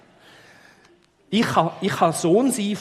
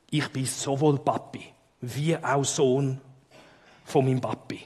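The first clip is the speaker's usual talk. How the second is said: tiefe Stimme; 3 semitones lower than usual. Pretend. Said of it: "mit tiefer Stimme".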